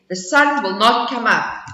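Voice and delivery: a hint of proud bear; firm bear answer; lightly voiced bear. Bear answering the squirrel, mildly firm.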